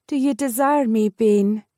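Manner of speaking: lightly voiced young woman testing him; heroine asking boldly. A narrator's reading. Heroine asking her lover.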